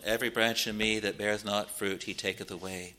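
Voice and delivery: subdued, weighty warning; very solemn. Acted. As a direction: recite it gravely, sinking away. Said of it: "Very solemn".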